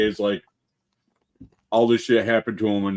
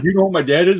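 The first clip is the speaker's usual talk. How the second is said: entitled daughter; 8 semitones higher, 6 dB louder, faster than usual. Retold or imitated. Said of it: "He's like".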